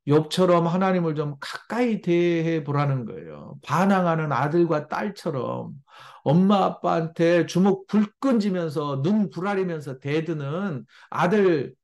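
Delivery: ordinary delivery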